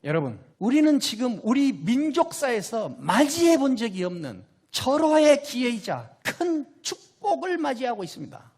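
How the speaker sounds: normal talking voice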